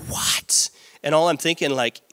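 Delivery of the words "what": unvoiced whispered what. Shocked retold reaction.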